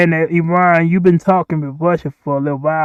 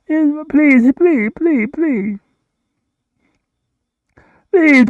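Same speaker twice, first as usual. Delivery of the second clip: rising into a high, urgent plea; high pleading; 9 semitones higher, slower than usual. Acted. Begging the countries to stop fighting, high urgent plea. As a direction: beg them, climbing higher each please.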